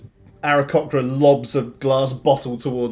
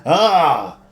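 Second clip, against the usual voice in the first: put-on high, loud with drunken laugh; drunk cackling brag; 7 semitones higher, 7 dB louder than usual. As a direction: laugh at your own tail, sozzled. Drunk admires tail, laughs.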